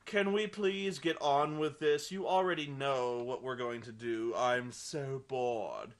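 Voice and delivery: slow, dragging, utterly bored; slow bored moan trailing off; bored vampire. Retold or imitated. Bored-looking vampire complains.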